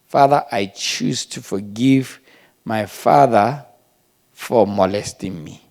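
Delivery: slow, measured prayer of forgiveness; deliberate prayer. Acted. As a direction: pray it slowly, one phrase at a time.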